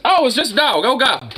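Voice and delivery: a high, breathless-sounding imitation of calming down; imitating relieved lady. Old lady realizing it's only a dog, high mock relief. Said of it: "turned around and realized".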